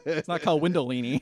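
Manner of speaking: laughing through a pun. Real, not acted. Laughing while joking to a friend about Mussolini. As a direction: chuckle through the joke.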